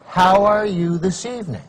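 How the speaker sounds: slow, oily cold-call question; lightly voiced slimy caller; slimy telemarketer. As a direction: stretch out each word like a slimy salesman. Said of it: "out of their slimy little mouths".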